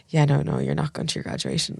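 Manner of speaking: softly breaking bad news; hushed, gentle, holding back; quiet. Mum quietly telling her daughter she can't go. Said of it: "she was so quiet".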